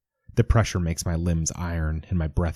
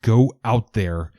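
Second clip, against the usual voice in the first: yell; 6 semitones higher, 6 dB louder than usual. Acted. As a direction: scream the order at him in horror. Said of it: "I yell".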